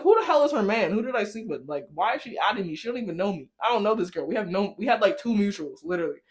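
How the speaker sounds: retelling her indignant questions to the friend; outraged disbelief. Retold or imitated.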